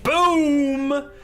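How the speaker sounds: sudden loud high burst of joy; excited shout. Real, not acted. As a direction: shout it out, thrilled. Excited reaction to donation.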